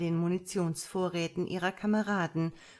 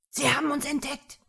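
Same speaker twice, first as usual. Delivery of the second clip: higher, louder alarmed cry; called out; 8 semitones higher, 5 dB louder than usual. A narrator's reading. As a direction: shout the warning to the group. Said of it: "rief der Anführer".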